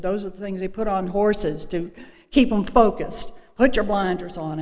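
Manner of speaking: put-on raspy, firm old-timer. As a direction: lean on it like she did. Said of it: "She had this real raspy voice".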